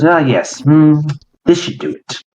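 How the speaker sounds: muttering crone, pleased with herself; witch voice. Acted. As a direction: murmur like a witch over a cauldron. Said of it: "She goes".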